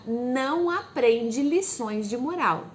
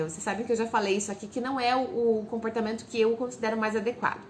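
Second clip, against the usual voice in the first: ordinary talk, nothing marked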